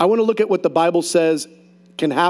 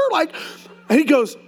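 normal talking voice

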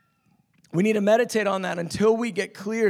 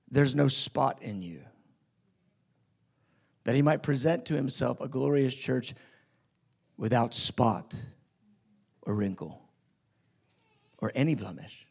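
hushed scripture; 9 semitones lower, 8 dB quieter than usual. Acted. Soft scripture reading.

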